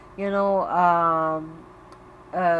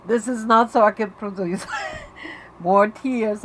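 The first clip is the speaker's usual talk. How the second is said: laughing through tears. Real, not acted. Laughs mid sentence while teary.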